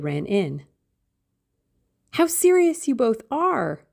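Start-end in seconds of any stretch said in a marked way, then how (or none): 2.1-3.9 high, lively exclamation; much higher, excited young woman's voice; girlish cry. A narrator's reading. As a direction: cry out as a girl bursting in. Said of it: "she cried".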